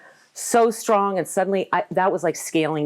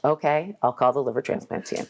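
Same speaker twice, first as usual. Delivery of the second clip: kind; 3 semitones lower than usual. Retold or imitated. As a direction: humour her gently. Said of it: "Kindly, he's like".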